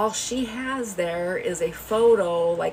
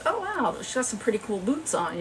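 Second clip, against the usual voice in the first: pleasant surprise; 5 semitones higher than usual. Retold or imitated. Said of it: "I was like".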